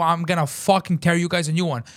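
retold heated warning; retold screaming. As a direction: threaten them in a retelling. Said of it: "as I'm screaming".

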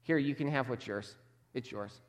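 quiet, cold brush-off fading away; dismissive servant trailing off softly. Retold or imitated. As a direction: shrug the gift back at the master. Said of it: "tone of dismissal".

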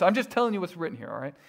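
quick shrug. Real, not acted. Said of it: "I'm not just telling you".

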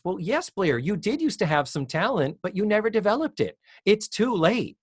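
a hint of a smug schoolgirl saying it's over; Tootie scolding. Tootie quoted scolding Blair.

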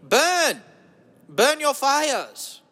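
put-on high, falling cries in a German accent; slow, drawn-out rallying cry; hammy exhortation. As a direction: urge them on like a mock motivator. Exhorting listeners to burn.

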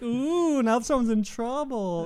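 high, slow, singsong taunt; teasing crowd. Retold or imitated. Crowd taunting the scolded cop, high and slow. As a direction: tease like a schoolyard crowd.

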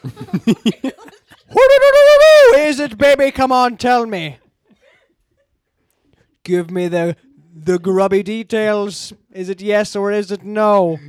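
excited. Acted. Hammed-up guessing game excitement.

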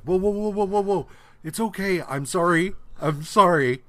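high, hurried backpedaling; panicked mock pleading. Podcaster voicing Samson apologizing to the Hulk, high mock panic. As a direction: plead to calm someone about to smash you.

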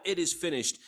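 hint at a shout without yelling it; mild retold shout. Preacher quoting Jesus' loud cry, a mild retold shout. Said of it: "cried out in that loud voice, shouted out".

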